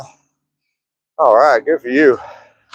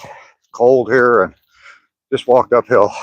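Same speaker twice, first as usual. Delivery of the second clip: out of breath; slower than usual. Real, not acted. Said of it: "Sorry, I'm out of breath".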